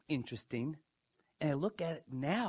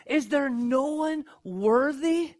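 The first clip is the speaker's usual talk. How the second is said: much higher, louder and slow, despairing; anguished crying out; 10 semitones higher, 9 dB louder, slower than usual. Acted. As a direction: cry it out as the weeping John, desperate. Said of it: "John found himself weeping".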